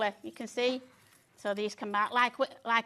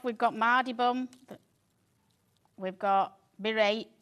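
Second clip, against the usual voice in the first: Yorkshire accent. Shown as a demonstration. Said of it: "say it in your Yorkshire accent".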